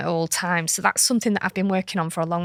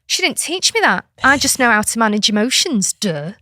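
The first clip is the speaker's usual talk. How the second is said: put-on indignant child; 3 semitones higher, 5 dB louder than usual. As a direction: imitate a seven-year-old scoffing at the idea. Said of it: "She went".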